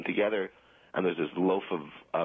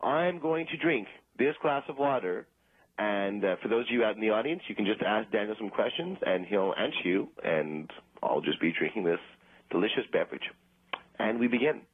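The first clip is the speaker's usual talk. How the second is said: stage announcer; 2 semitones higher than usual. Acted. Ventriloquist introducing his water-drinking bit to the audience, showman-like.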